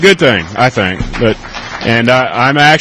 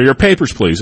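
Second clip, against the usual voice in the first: mock Gestapo officer; 3 semitones higher than usual. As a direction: lightly play the officer demanding papers. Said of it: "The, the Gestapo, or".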